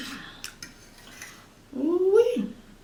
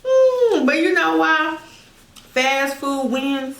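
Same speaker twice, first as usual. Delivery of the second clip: excited aside; 8 semitones higher, 5 dB louder, slower than usual. Real, not acted. Sudden emphatic aside to viewers.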